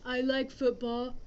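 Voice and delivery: flat, stilted beginner sentences; mock a choppy level-A speaker; choppy simple sentences. Shown as a demonstration. Teacher mocks choppy beginner talk, flatly. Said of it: "If we just talked like this".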